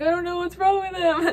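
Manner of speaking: acted-out frantic panic, very high-pitched. At the emergency vet after x-rays showed nothing, retelling own freak-out. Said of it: "So I was just freaking out".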